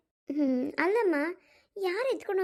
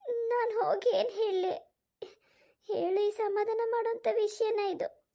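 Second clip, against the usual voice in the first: choked despair; 4 semitones higher than usual. Acted. Despairing about comforting sister.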